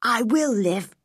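lightly voiced tired boy asking for company; Colin, wistful sick boy. A narrator's reading. Sick boy asks girl to stay, wistful.

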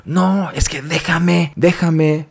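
high-pitched, drawn-out frantic protest; mock shouting. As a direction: imitate a frantic yell without full volume. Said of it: "empezó a gritar y dijo".

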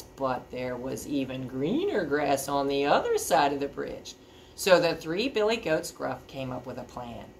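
put-on animated storybook reading to children; story narration. A narrator's reading. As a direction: build up the troll, then settle into the tale.

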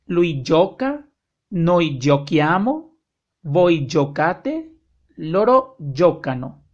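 slow, deliberate recitation of verb forms; slow conjugation drill. Shown as a demonstration. Teacher drilling Italian verb endings, slow and deliberate. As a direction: recite each form slowly for the class. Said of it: "conjugation drill".

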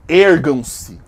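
loud dark-lord command; loud commanding summons. Acted. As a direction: order them to rise, loud and grand. Summoning her subscribers. (comando alto e solene)

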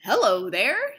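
loud friendly call across the field; old inventor calling out hello; cried out. Acted. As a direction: call out to get attention. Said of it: "he cried".

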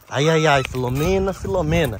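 loud fond exclamation to a pet; loud teasing scold of the hen. Real, not acted.

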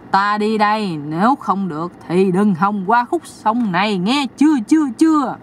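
threaten, then needle her; mock menacing spirit. Deity threatens, then teases.

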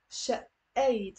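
شقيت with the qaf dropped and a glottal stop; شقيت said slowly, no q sound; teacher modelling شقيت; Lebanese pronunciation. Shown as a demonstration. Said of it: "So notice there's a".

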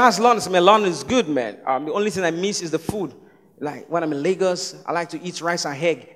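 low, soft mock British-Yoruba accent. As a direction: imitate a Yoruba speaker putting on British English. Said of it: "I saw Yoruba British".

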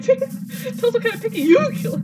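high cracking voice. Real, not acted. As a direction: let the voice crack. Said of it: "my voice cracked".

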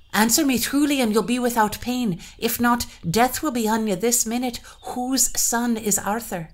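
high, loud and menacing; threatening bride. Acted. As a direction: demand the truth with threat. Bride threatens queen with death.

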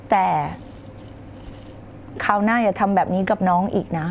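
sit close and ask him kindly; tender wife's plea. Shown as a demonstration. Wife sitting close asks husband never again, tenderly. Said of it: "นั่งใกล้ชิดเขา เอาตัวใกล้กัน แล้วก็บอกว่า".

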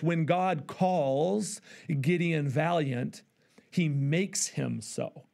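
deliberate, drawn-out quote of "When God calls Gideon valiant"; slow quote. Shown as a demonstration. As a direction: read slowly, letting every word land. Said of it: "He says this".

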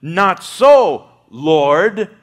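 loud, firm refusal from Peter; emphatic refusal. Acted. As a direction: push back hard: not so. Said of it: "And Peter responded".

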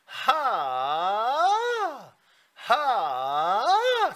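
high breathy falsetto "하" sliding up and down; falsetto ha demo. Shown as a demonstration. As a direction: sing "하" lightly up into falsetto. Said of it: "그냥 내가 하는 대로만 해". (가성으로 올라가는 "하" 시범)

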